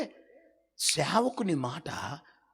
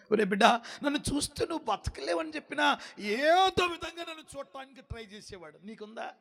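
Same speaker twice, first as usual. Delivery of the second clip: God's voice; 7 semitones higher than usual. Acted. God voiced scolding eager prophet.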